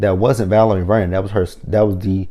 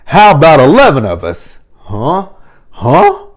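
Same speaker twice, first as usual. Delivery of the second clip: loud, high, excited hero line; hyped quote of favorite line; 6 semitones higher, 7 dB louder, slower than usual. Retold or imitated. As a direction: shout it like a fired-up Ranger. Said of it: "my favorite line".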